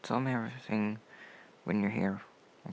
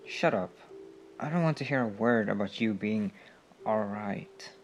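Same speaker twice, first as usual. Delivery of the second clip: louder, firm and caring; firm insistence; 5 dB louder than usual. Acted. Friend refusing to hear the injured comrade is fine, firm and louder. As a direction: cut off their excuses firmly.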